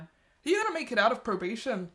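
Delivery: light Northern Irish lilt on the question; a try at a Northern Irish accent; lightly voiced Northern Irish accent. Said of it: "That was a really good accent".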